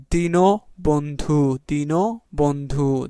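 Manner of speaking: দীনবন্ধু very slowly as "dino... bondhu"; syllable-by-syllable demo. Shown as a demonstration. Teacher sounding out the word for spelling, slow "dino-bondhu" for দীনবন্ধু. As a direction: stretch and separate both halves of দীনবন্ধু.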